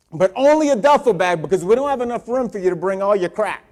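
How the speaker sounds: screaming into phone. Retold or imitated. Mother phoning her son to pack one bag, screaming. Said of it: "she was screaming in the phone".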